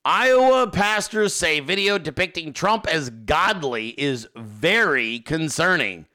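slow dramatic headline read. Real, not acted. Reading a New York Times headline to viewers, slow dramatic. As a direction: read the headline slowly for effect. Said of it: "You see that?".

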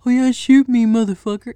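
loud, high mocking dare; a retold taunt yelled at the cop; taunting shout. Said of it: "he was like".

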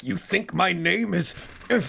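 very high, cracking-up shouted indignation; mock wounded outrage. Hero being called lame, hammed-up emotional outburst. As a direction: build from high disbelief to an overblown shriek. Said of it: "emotional reaction that Gohan is having".

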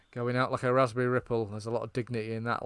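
dry sarcastic quip, not played up; a touch of deadpan sarcasm over a friend's body. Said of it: "like, sarcastically".

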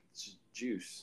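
laughing through the words; giggling it out. Retold or imitated.

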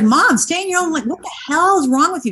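mock angry teen. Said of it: "my son was like".

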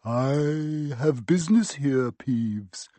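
slow, hoarse, ghostly croak. A narrator's reading. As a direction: croak it out like a forbidding phantom. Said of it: "croaked Harry".

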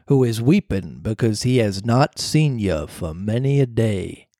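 low, slow ghostly cricket; slow low voice of a spirit; talking cricket voice. Acted. The cricket's advice.

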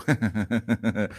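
mimicking an awkward laugh from the class; short half-hearted imitation laugh; imitated class laughter. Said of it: "hubo una risa medio, medio".

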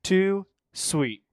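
loud catchphrase call; wrestling promo. Pretend. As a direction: belt it out like a wrestler. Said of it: "your best either wrestler impression".

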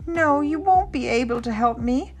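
mildly wailing, hopeless little one; tearful little Ernest. A narrator's reading. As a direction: refuse help as an upset child. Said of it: "Ernest started to cry".

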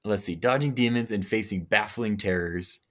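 movie trailer voice. Acted. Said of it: "I should be the new, uh, movie voice guy".

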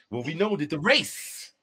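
mock revival preaching to the audience; fake preacher. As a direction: ham up a Billy Graham style preacher. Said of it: "This fake Billy Graham preaching".

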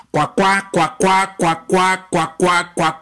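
lightly voiced stutter, quacking syllables over and over; stutterer. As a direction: stutter through it, sounding like a duck. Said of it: "era tartamudo". (tartamudeo ligero, como graznido de pato)

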